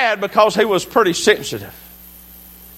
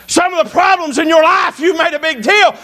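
high-pitched, emphatic pulpit delivery; full-force preaching; 6 semitones higher than usual. Real, not acted. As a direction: drive each point home like a fired-up preacher.

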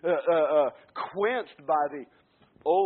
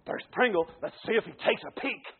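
spying Pharisee; 3 semitones higher than usual. Acted. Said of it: "Pharisee is going".

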